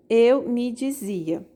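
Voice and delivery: slow, syllable by syllable; scanned slowly. Shown as a demonstration. Teacher scanning the verse for the class, slow and spaced. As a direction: stretch each syllable to count it. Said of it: "Veja o exemplo, ó".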